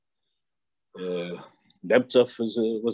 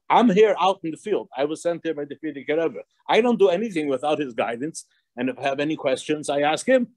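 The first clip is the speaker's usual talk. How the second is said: higher-pitched, mildly indignant plea; retold protest; 5 semitones higher than usual. Rabbi Posner writes protesting to the Rebbe, higher mild protest. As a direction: plead your case from out in the field.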